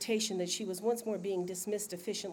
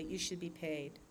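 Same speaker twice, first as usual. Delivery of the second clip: gently; 6 dB quieter, slower than usual. Acted. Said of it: "he said gently".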